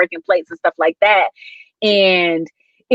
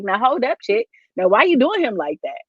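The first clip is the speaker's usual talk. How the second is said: mock confrontation; 3 semitones higher than usual. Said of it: "I'd be like".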